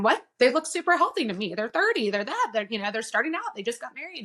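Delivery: can't believe the news; disbelief. Retold or imitated. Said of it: "I'm going".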